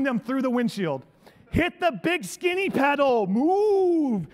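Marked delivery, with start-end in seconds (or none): 1.5-4.3 impatient driver. Retold or imitated. Coaching driver through windshield.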